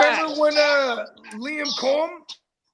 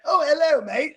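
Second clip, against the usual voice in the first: slightly higher mock British accent; 3 semitones higher than usual. Podcaster admitting he imitates English people, fake British accent. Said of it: "British accents".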